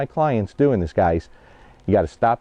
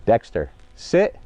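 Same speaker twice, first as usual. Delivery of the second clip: clear separate command; slower than usual. Shown as a demonstration. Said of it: "Then I give the hand signal after".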